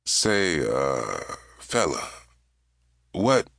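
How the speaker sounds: slow, soothing, drawn-out captain; deliberately calm. A narrator's reading. Captain talking to his armed hijacker, deliberately calm and slow. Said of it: "voice was slow, with a deliberate attempt to be calm, soothing".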